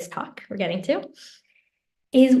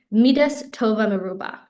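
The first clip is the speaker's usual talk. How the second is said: a little more deliberate on "Midas tova meruba"; slightly slower; 2 semitones lower than usual. Shown as a demonstration. Teacher repeating a powerful quote for listeners, a little slower. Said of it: "say it a little bit slower".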